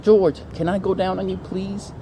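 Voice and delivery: a touch of wheedling; mock pleading. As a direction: ask pleadingly, imitating a needy guy. Imitating the guy pleading with George.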